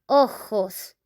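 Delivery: ojos with a breathy h for the j, o-hos; Spanish ojos. Shown as a demonstration. Teacher modeling ojos for learners, clear Spanish. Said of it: "we say".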